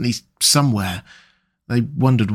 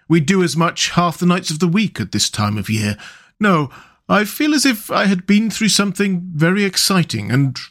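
a hint of a higher little mole voice, tired and wondering; lightly voiced Mole; 4 semitones higher than usual. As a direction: play Mole musing on the strange night, lightly voiced. Mole speaking in story.

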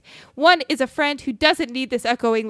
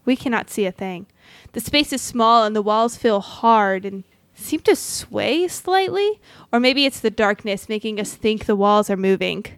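story narration; 2 semitones lower than usual. A narrator's reading. DM narrates the opening scene.

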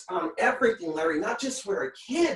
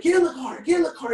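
mock nagging mom; 6 semitones higher, 5 dB louder, faster than usual. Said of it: "she's like".

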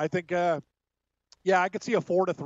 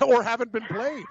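loud, higher, laughing add-on; laughing jab; 5 semitones higher, 3 dB louder than usual. Real, not acted. Host topping co-host's dig at Bob's picks, laughing. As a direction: crack up while piling on the tease.

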